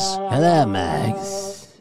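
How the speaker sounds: lightly hammed-up Spanish accent greeting; a hint of a Spanish accent, sliding up; put-on Spanish accent. Host welcoming Mags with a light mock Spanish accent. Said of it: "do the rapey accent".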